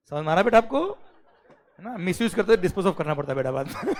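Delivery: talking through a building laugh. Real, not acted. Teacher amused by a student's example, laughing. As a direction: let amusement break into the explanation.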